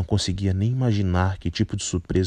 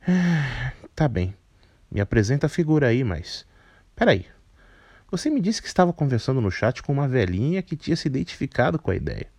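put-on higher, cheeky, grumpy girl voice; grumpy young woman; 5 semitones higher than usual. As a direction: rattle it off like a fed-up teen. Barata speaks.

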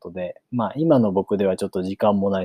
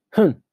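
short, higher "hmph"; dismissive snort; 9 semitones higher, 4 dB louder than usual. A narrator's reading. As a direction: give one brief snort through the nose. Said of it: "鼻を一つ鳴らして言った". (鼻を鳴らす「ふん」)

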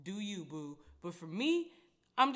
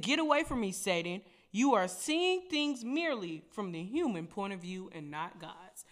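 louder, firm rebuke; stern rebuke; 4 dB louder than usual. Retold or imitated. Jesus rebuking Peter, louder and firm. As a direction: rebuke him like you mean it. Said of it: "He said".

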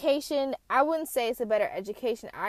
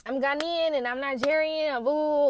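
imitating proud girls, pitched up; mock-proud, raised-pitch declaration; proud boast; 5 semitones higher, 3 dB louder than usual. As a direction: show off the heritage, higher voice. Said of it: "they were proud of their African culture".

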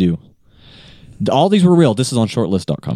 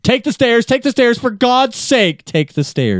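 dramatic tagline; 12 semitones higher than usual. Pretend.

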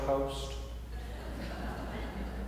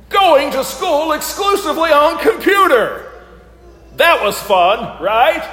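game show host; 3 semitones higher, 5 dB louder than usual. Pretend. Hosts the sermon game show.

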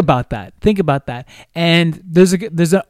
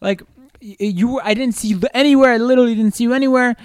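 mimicking girlfriend; 6 semitones higher than usual. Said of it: "And she's like".

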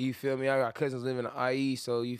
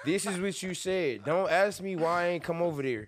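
acting out calling someone out, higher pitched; mock confrontation; 3 semitones higher than usual. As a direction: throw the receipts in their face, drawn out. Acts out confronting someone with their texts.

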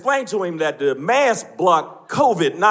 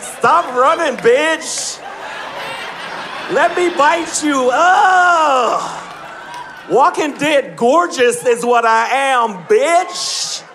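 higher, campy zombie calling after prey; gay zombie; 4 semitones higher, much slower than usual. Retold or imitated. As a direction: chase them like a sassy zombie. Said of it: "A bunch of zombies walking".

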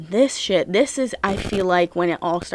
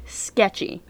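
breathy whisper of one word; whispered sketchy. Real, not acted. Telling viewers the neighbor sensed it, whispered. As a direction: hiss it like a secret.

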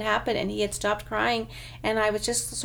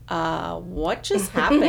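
baffled laugh; 4 semitones lower, 4 dB louder, slower than usual. Retold or imitated. Mom baffled after tantrum.

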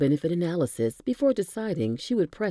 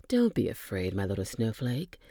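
caressing; 4 semitones lower than usual. Acted. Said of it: "Jan said in a caressing tone".

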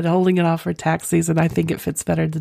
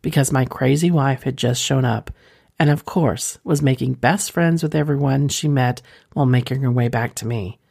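measured read-aloud of a racy letter; story narration. A narrator's reading. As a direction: read it out as a first-person confession. Reads a listener's story aloud.

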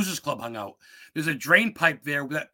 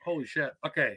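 talking through a weed haze; stoned; 5 dB quieter than usual. Real, not acted. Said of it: "I'm just really baked".

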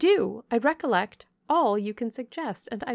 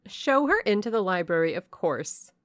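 louder, haughty cut-in; imperious interruption; 5 dB louder than usual. Acted. Blanche interrupts her mother, loud and haughty. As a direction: brush mother aside, take command. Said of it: "cut in the angel girl".

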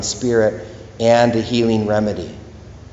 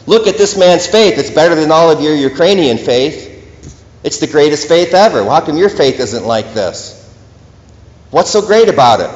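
raised, emphatic voice of Jesus marveling; imagined Jesus praising; 3 semitones higher than usual. Retold or imitated. Jesus pointing out the soldier's faith, emphatic and astonished. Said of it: "Jesus ... points out a Russian soldier and says".

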